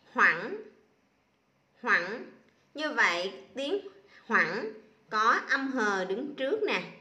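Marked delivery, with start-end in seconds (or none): 0.1-2.3 read it loud. Shown as a demonstration. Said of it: "Các con đọc lớn lên".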